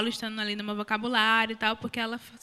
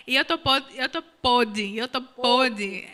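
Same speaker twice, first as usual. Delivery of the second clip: eu tô podre said very slowly, stretching each word; slowly relished phrase from back home, slightly louder; drawn-out Cariri phrase; 4 dB louder, slower than usual. Retold or imitated. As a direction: savour the old Cariri expression, slow and deliberate. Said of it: "É uma coisa de lá".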